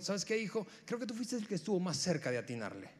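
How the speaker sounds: condescendiente, bajando la voz al final. Retold or imitated. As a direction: una madre que sonríe con paciencia. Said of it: "fue un poco más condescendiente". (la madre le habla al tercer hijo, condescendiente)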